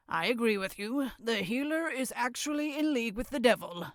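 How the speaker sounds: fast, rushed elder verdict; hasty agreement. Acted. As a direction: rush the agreement out.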